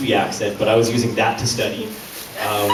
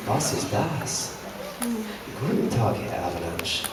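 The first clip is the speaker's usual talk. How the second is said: German accent; 5 semitones higher than usual. Shown as a demonstration. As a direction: sneer it like a German cartoon villain. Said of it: "that's, like, how I auditioned for it".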